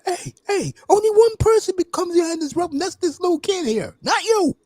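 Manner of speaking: high-pitched mock yelling; imitated screaming. Wrestler ordering everybody back from the rope, imitated screaming. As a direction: act out a wrestler screaming at the crowd. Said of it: "he was screaming at everybody".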